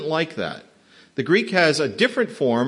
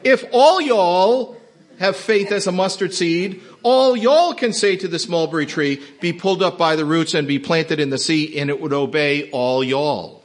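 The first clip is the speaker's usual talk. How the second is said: Texas reading; 3 dB louder than usual. Shown as a demonstration. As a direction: read the verse like a Texan. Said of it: "let's read the text that way".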